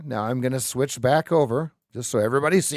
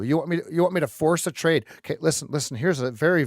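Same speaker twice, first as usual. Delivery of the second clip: ordinary talk, nothing marked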